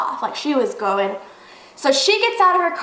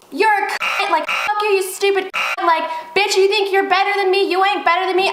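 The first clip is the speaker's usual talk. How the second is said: retold angry insults; 6 semitones higher than usual. Acted face-to-face quarrel.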